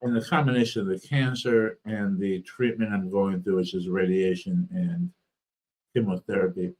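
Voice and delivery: speech thick from a swollen tongue; talking through a swollen, sore mouth. Real, not acted. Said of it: "My, my tongue is swollen".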